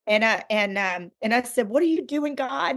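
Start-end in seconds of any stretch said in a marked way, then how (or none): 1.7-2.8 mock angry plea. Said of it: "I pitched a royal hissy fit".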